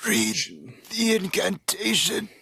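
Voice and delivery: in-character urging. Acted. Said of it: "and then I'll be like".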